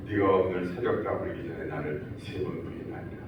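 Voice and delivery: solemn remembered words. Retold or imitated.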